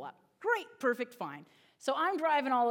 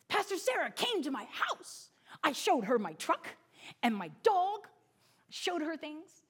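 proud preschooler reporting; 4 semitones higher than usual. Retold or imitated. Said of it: "first thing he's gonna say".

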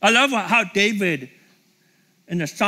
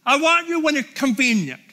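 casual mock prayer; 4 semitones higher than usual. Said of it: "he's not saying".

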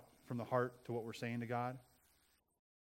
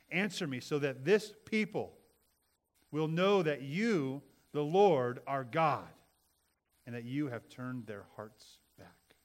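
loud, slow, fervent prayer; fervent plea; 8 dB louder, slower than usual. Acted. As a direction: cry out slowly to God. Reads Elijah's prayer.

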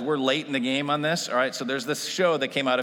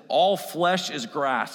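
slow, loud, weighty proclamation; bold declaration; 3 semitones higher, 4 dB louder, much slower than usual. Shown as a demonstration. Preacher declaring the verse to the whole church, slow and bold. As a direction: lean on every word and declare it. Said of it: "needs to be declared boldly".

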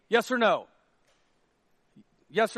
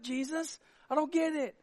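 ordinary delivery

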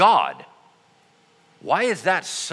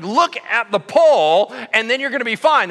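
firm insistence; 5 semitones higher, 6 dB louder than usual. Retold or imitated. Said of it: "He's like".

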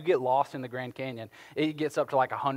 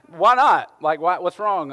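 mock surprise; 3 semitones higher, 8 dB louder, slower than usual. Real, not acted. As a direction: feign shock at the refusal. Volunteer refuses the water.

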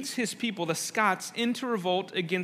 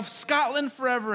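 mock soldiers' yell; 6 semitones higher than usual. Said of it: "all the soldiers yell".

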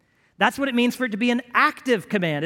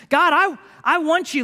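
earnest plea; 7 semitones higher, 5 dB louder than usual. Pretend. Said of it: "like Jacob".

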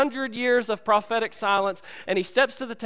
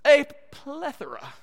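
Jefe voice; 7 semitones higher than usual. Retold or imitated. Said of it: "He says".

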